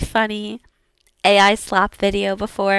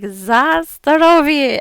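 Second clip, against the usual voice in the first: cartoon missile voice; 5 semitones higher, 5 dB louder, slower than usual. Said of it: "ones from Russia was like".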